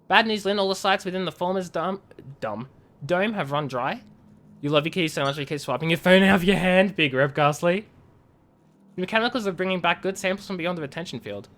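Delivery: lightly voiced in-character message read; reading game messages. Streamer reads a miner's report to chat, lightly acted. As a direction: read the colony log like a letter home.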